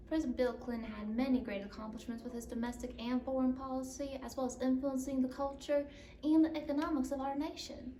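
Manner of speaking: formal, even newsreader delivery; news anchor sign-off. Acted. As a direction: wrap up the segment like a news anchor.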